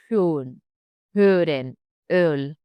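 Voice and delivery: HÖREN and ÖL with rounded-lip Ö. Shown as a demonstration. Teacher giving Ö example words, rounded lips. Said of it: "saying like O with attitude".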